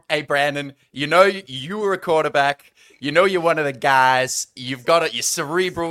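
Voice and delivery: put-on a light East London accent, rallying a mate. Pitching to coach Brandon Staley in an East London accent. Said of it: "Why did you have an accent there at the beginning?".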